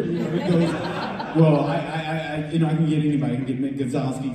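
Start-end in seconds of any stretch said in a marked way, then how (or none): 1.4-4.4 quick, stammering sales push; imitating a fast talker; fast talking. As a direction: rattle it off, tripping over the start. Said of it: "he's just talking fast at me".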